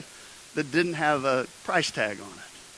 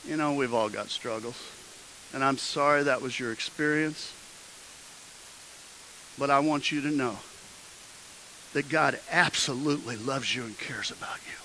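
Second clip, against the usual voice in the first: gentle reassurance; 2 semitones lower, 5 dB quieter than usual. Retold or imitated. Pastor consoling a hurt young man, gentle reassurance. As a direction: comfort him softly and earnestly.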